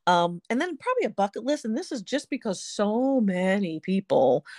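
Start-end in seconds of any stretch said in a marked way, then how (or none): 1.6-4.4 whisper. Real, not acted. Whispered aside mid-sentence.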